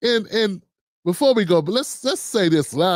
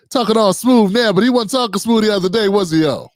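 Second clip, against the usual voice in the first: louder, teasing call to the crowd; loud mocking jab; 5 dB louder than usual. Real, not acted. Commentator calling out the pastor to viewers, loud and teasing. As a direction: rib him loudly to the audience.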